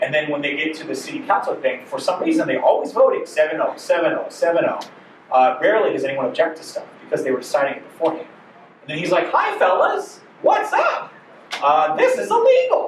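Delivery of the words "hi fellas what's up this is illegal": very high, squeaky voice in a sing-song lilt. Acting out a man speaking up to the city council, in a squeaky voice. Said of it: "Probably not as squeaky of a voice".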